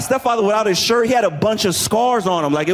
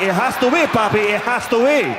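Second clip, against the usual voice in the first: insistent Latina mother; 4 semitones higher than usual. Retold or imitated. Imitating his mother jumping to conclusions.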